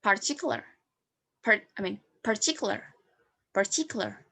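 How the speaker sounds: "particular" with the final R clearly sounded; rhotic pronunciation. Shown as a demonstration. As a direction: say "particular" with a full R at the end. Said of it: "In erotic accent, we use".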